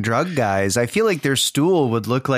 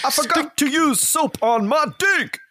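high, fast squeaky cartoon voice; silly high voice; 12 semitones higher than usual. Same silly voice continued.

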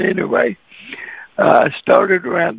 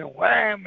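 door slam; 4 semitones higher, 6 dB quieter than usual. Retold or imitated. Imitates door slamming.

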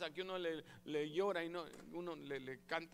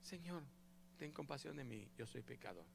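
much softer, lowered plea of a sinner; humble quiet prayer; 5 semitones lower, 11 dB quieter than usual. Shown as a demonstration. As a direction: murmur it as if bowing your head.

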